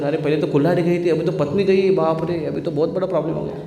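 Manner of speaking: usual speaking voice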